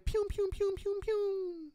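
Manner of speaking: high, soft pew pew; high mock gun sounds. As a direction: squeak out toy gunfire.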